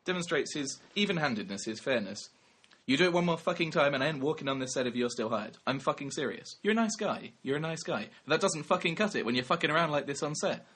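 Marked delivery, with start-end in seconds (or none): 2.9-10.6 imitated angry dressing-down, higher pitched; mock a star's furious ultimatum, voice raised; Christian Bale. Actor threatening to walk off set, imitated angry rant. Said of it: "in his, um, slightly weird mid-Atlantic accent".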